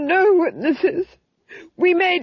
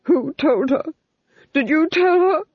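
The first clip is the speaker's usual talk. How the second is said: high, frantic demand; panicked Duke; 9 semitones higher, 5 dB louder than usual. A narrator's reading. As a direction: demand it in rising panic, voice shooting up. The Duke panics at being found out.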